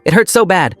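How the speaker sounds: high-pitched cry of pain; hurting child, voice climbing; pained plea. A narrator's reading. Crying boy in severe pain.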